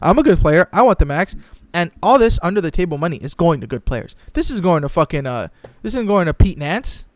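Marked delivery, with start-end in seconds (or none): 0.0-1.3 mock greedy player. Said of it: "all those people are gonna say".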